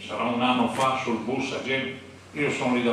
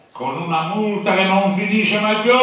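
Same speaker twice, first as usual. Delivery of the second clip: retold threat; 5 semitones higher, 4 dB louder than usual.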